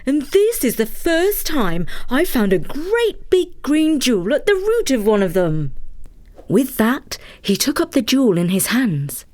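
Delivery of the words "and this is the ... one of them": put-on old woodcutter voice. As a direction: speak as the amazed old cutter. Takitori speaks in story.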